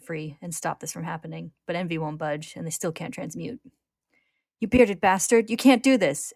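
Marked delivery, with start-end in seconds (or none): 4.6-6.3 high, loud protest; raised, forceful narrated yell; angry shout. A narrator's reading. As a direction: shout in outrage at a captor. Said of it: "Ed shouts".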